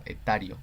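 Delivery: etario stressed on the A, e-TA-rio. Shown as a demonstration. Teacher spelling out etario for students, stress on the A. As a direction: lean on TA in etario. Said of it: "un acento en la A".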